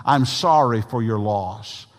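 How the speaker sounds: slow, meant condolence; sincere condolence. Shown as a demonstration. Preacher showing how to console someone, sincere. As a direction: say it slowly so it is meant. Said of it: "say it in a way that you mean it".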